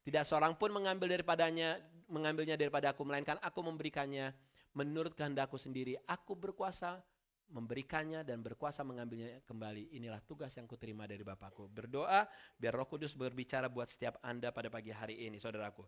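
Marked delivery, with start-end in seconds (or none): 0.1-11.7 scripture reading. Acted. Pastor reading scripture to the congregation, softly. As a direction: read the verses quietly and solemnly.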